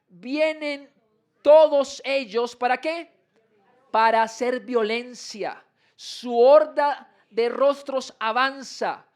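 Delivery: slow, stretched reading with a strong opening word; solemn public Bible reading; scripture proclamation. Acted. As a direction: proclaim each command slowly. Reads scripture on screen.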